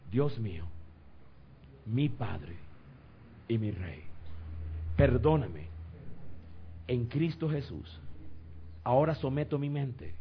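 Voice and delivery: solemn prayer, a phrase at a time; led prayer. Real, not acted. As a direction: lead them in earnest prayer with long pauses. Leads congregation in prayer.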